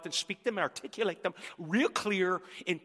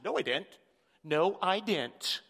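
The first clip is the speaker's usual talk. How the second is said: defensive denial. Retold or imitated. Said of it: "my first initial high D personality reaction".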